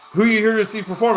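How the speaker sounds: raspy voice. Retold or imitated. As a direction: rasp it like a racetrack regular. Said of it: "he sounded like".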